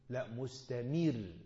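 "مستمر" drawn out with a thin light ra; light ra demo. Shown as a demonstration. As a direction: stretch "مستمر" slowly, keeping the ra light. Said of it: "الراء مرققة مير".

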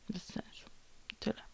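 barely audible whisper. Real, not acted. Vlogger whispering to herself, giving up. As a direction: let it die on the breath.

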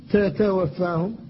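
تتوفاهم said slowly, both ت sounds kept distinct and tense; doubled t kept strong. Shown as a demonstration. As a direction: hold the doubled ت in تتوفاهم firm. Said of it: "فلا بد من الحفاظ على شدتها".

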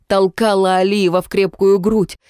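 plain reading voice

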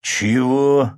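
loud, high furious bark; roared. A narrator's reading. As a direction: roar the word at her. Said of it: "взревел Рома".

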